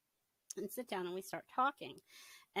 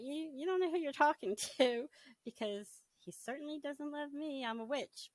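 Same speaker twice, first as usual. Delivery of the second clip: laughing disbelief; 7 semitones higher, 3 dB louder than usual. Retold or imitated. Retold thought, incredulous laugh.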